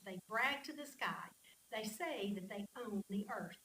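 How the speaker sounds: emphatic psalm read-aloud; expressive scripture reading. Acted. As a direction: read the psalm out with feeling, leaning on key words.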